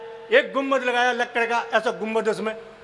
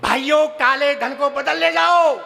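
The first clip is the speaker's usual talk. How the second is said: slow, louder speech-style address; imitating Modi; 4 dB louder, slower than usual. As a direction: orate like a politician to the crowd. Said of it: "Narendra Modi बोले".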